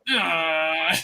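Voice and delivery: a short fussy grunt, lightly mimicked; mock the dog's annoyed grunt; a dog's fussy grunt, mildly imitated; imitating dog grunt. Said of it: "Don't grunt at me".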